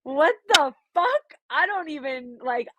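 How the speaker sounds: mock flustered panic. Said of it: "And I was like".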